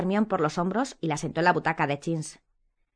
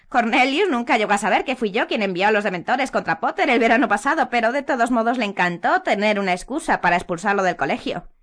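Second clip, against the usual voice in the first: high, loud gloating; boastful confession, pitched up; Umbridge voice; 5 semitones higher, 6 dB louder than usual. A narrator's reading. Umbridge confessing the dementors to Harry.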